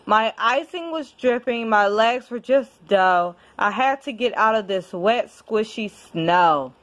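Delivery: lively storybook reading with rhyme; reading to a child. Acted. Parent reading a rhyming book to a child, storytelling voice. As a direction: read it like a bedtime picture book. Reads picture book aloud.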